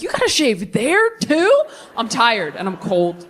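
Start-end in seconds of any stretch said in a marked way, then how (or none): 0.0-1.6 incredulous aside. Retold or imitated. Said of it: "I'm just like".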